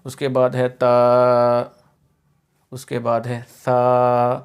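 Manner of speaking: slow, careful تا and ثا; slow Qur'anic letter drill; slow letter recitation. Shown as a demonstration. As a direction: spell out each letter slowly. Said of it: "یہ جو ثا ہے نا".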